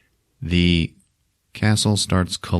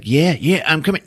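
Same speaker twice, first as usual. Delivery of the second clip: slightly higher eager mock voice; lightly voiced eager glaive; 6 semitones higher than usual. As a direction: play a weapon straining to come back. Voicing the straining glaive.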